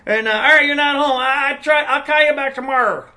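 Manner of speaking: loud, high Italian-American voicemail with drawn-out words; caricatured Italian mobster-style phone message; over-the-top Italian. Retold or imitated. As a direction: ham up an Italian family friend leaving a message. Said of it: "so over the top Italian".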